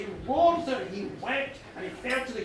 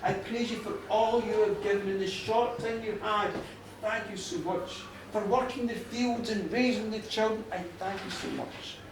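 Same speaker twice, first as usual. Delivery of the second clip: gentle, earnest praise of the dead; understated heartfelt gratitude; grateful thanks. Acted. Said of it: "he thanked them too".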